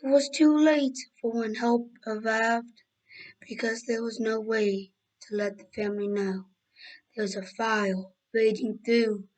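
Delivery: slow, measured storyteller delivery; solemn scene-setting, drawn out phrase by phrase; dramatic story narration. Acted. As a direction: narrate a disaster tale with deliberate pauses.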